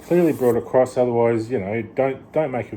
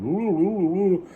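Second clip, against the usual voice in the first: high mocking gibberish, much higher than usual; mock foreign accent; 9 semitones higher, slower than usual. Mocking a strong-accented video presenter, high gibberish. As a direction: parody an unintelligible tutorial presenter. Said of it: "they put on such a strong accent".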